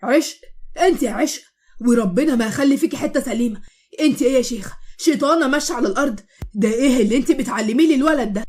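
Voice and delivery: loud furious yelling of her name; angry shouting. Acted. Moatasem drenched in water, yelling at Eshq. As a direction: bellow at her in rage. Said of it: "عمال يزعق بأعلى صوته".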